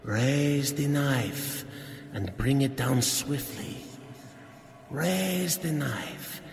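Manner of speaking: slow, insistent commanding voice; echoing hypnotic command. Acted. Hypnotist's voice echoing in the husband's mind, insistent. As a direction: drive the order into his head.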